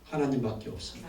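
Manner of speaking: 하나님밖에 없습니다 said low and hushed; soft confession. Shown as a demonstration. Preacher modelling the believer's confession, quiet. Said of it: "이렇게 고백하라는 거예요".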